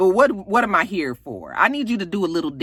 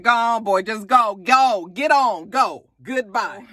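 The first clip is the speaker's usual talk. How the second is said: louder, slow shooing urge; urging him out; 5 semitones higher, 3 dB louder than usual. Real, not acted. Recapper cheering A J to leave, louder. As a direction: shoo him out the door. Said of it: "I was like".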